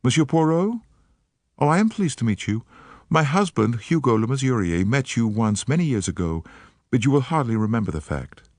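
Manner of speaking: put-on light American accent, eager and polite; an American woman, gently worried; faint American accent. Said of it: "She spoke with a faint transatlantic accent".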